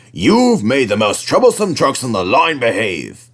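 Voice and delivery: lightly voiced kindly boss; a mild, pleased manager; lightly voiced controller. A narrator's reading. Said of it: "he said".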